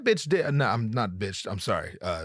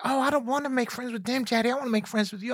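coy woman voice; 10 semitones higher, faster than usual. Retold or imitated. Mimics woman's coy refusal.

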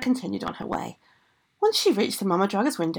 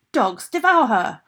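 slow, louder storybook order; commanding shout; 3 semitones higher, 6 dB louder, slower than usual. Acted. Ogress sets dogs on girl, commanding shout. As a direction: call the order out, drawn out.

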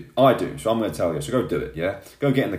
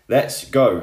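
a loud, pumped "let's go"; rally yourself up, louder; hyping himself up with a rallying cry; fired up; 5 dB louder than usual. Real, not acted. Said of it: "I'm getting fired up".

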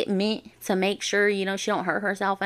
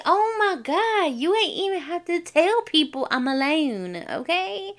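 much higher, mortified protest; embarrassed exasperation; 9 semitones higher than usual. Retold or imitated. To the ride operator announcing she's alone, high and mortified.

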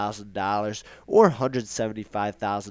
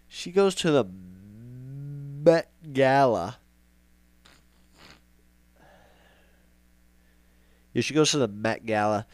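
real slow; 4 dB louder than usual. Shown as a demonstration. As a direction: spell it out slowly so nobody misses it. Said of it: "I'll say it real slow".

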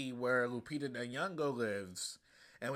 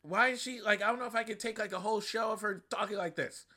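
exasperated thought; 7 semitones higher than usual. Retold or imitated. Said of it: "I was like".

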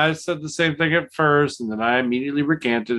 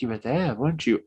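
whispering through a door; 6 dB quieter than usual. Retold or imitated. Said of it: "I said".

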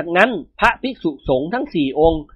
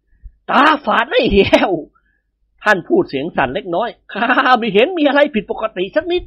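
slightly shaky voice; 5 semitones higher, slower than usual. Acted.

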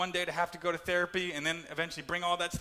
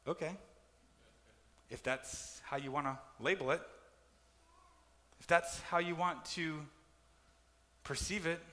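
calm God reply; 4 dB quieter than usual. Retold or imitated.

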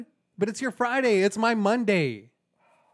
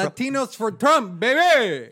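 excited; 6 semitones higher, 7 dB louder, slower than usual. Pretend. Boasting about the rally.

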